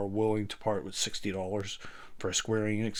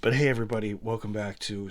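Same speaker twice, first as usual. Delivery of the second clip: rough gravelly growl, a bit louder; 4 dB louder than usual. Shown as a demonstration. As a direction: try out a gravelly voice. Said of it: "try the gravelly little voice out".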